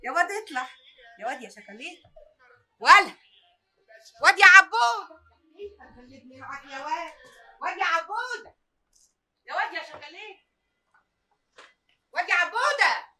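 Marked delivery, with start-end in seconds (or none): 2.8-8.6 loud, higher call across the street. Acted. Mother calling loudly for her missing son. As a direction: call for the boy from afar.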